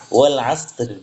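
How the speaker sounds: wal asr with sod said as sin; wrong pronunciation. Shown as a demonstration. Teacher showing the worse mistake with sin. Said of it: "sodnya menjadi sin".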